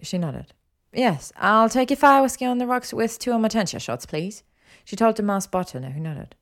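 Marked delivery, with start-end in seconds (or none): 0.9-4.4 higher woman's voice; lightly voiced Hermione, brisk order. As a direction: order drinks politely, pitched up.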